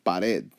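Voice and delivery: "pared" stressed on its final vowel E. Shown as a demonstration. Teacher showing stress falls on vowels, "pared" accented on E. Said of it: "it is always on a vowel".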